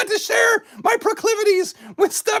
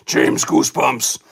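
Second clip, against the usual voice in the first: spooky falsetto. Pretend. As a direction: stretch it out like a haunted howl. Spooky title joke.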